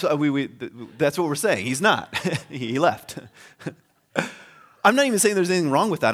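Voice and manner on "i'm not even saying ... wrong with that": laughing. Real, not acted. Laughing through the disclaimer.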